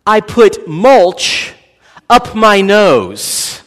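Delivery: put-on slow, drawn-out little-girl admission; lightly voiced toddler confessing; toddler confession. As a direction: say it like a sheepish three-year-old. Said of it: "Emma says".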